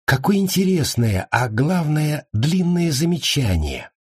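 high-pitched marvelling comment; surprised. A narrator's reading. Fatma remarking on the savage's speech, surprised. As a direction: marvel at it, slowing at the end. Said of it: "удивлённо произнесла Фатма".

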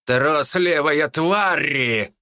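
slow, growled insult; growling demon lord. A narrator's reading. Demon lord insulting the retreating wolf, growling. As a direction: spit it out like a snarling demon. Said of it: "прорычал лорд демонов".

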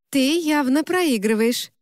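gleeful ribbing of a losing friend; cheerful taunt, drawn out. Acted. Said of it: "весело сказала Кара".

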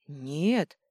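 loud cry of denial; shouting. A narrator's reading. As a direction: several voices shout no. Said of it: "вскричали сразу несколько голосов".

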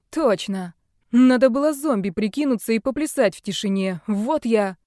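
lively rueful outburst. Acted. Excited captive.

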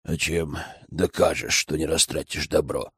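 a lightly voiced stubborn elder; distrustful elder. A narrator's reading. Persistent doubting elder. (низко и настойчиво, недоверчивый старик)

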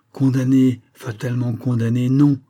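punched "Condamné" and "non" in firm rebuttal; emphatic denial. Acted. Surgeon firmly rejects a death verdict.

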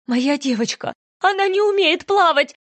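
high, loud frantic shout; mother watching her daughter drown, frantic; panicked cry. Acted. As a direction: cry out in horror.

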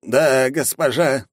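slow, grudging agreement; forced reply. A narrator's reading. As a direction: say it through a strained smile. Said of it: "натянуто улыбнувшись, скрипя зубами". (натянуто, нехотя)

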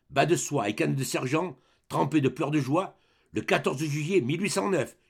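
a veteran rattling off his record at attention; proud military roll call of battles; soldier reporting for duty. Acted. Grenadier standing at attention before the duke, proud report.

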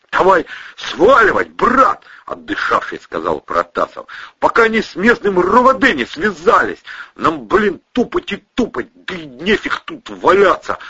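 high, loud rough urging; tough guy voice. Acted. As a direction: push your friend to move. Protasov's voice.

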